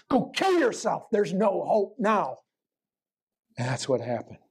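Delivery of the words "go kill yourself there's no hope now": hammed-up devil jeering at the hopeless; devil screaming. Preacher acting the devil turning on Judas, screaming. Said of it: "then he'll scream".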